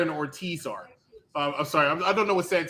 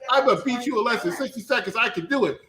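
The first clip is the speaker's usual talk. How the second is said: lightly mocking boast; 5 semitones higher than usual. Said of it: "Adam Page said".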